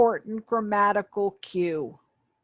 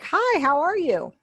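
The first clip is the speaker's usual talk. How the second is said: lightly acted cheery hello, higher and drawn out; person A greeting; 10 semitones higher, 5 dB louder than usual. Teacher voicing person A in a sample chat, acted greeting. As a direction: stretch the greeting, higher and louder. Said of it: "the A person would say something like".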